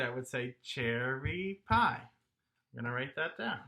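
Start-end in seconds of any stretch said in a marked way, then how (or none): 0.6-2.0 "cherry pie" in three measured beats; pie rhythm. Shown as a demonstration. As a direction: stretch out "cherry pie" as cher-ry-pie. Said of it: "say that with pie rhythms".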